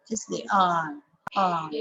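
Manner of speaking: final "are" stressed and falling; strong ARE. Shown as a demonstration. Teacher demonstrates the strong form, stress on ARE. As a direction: land firmly on "are", then repeat it. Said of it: "R here becomes a strong".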